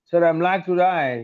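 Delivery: imitated American accent, long drawn vowels; slow American-accented "die" for "day"; American lady's accent. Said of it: "One of the American ladies". (American యాస అనుకరణ)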